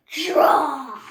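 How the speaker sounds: loud sharp shout of draw; deputy shouting the start; shouted command. Acted. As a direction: call the start of the duel.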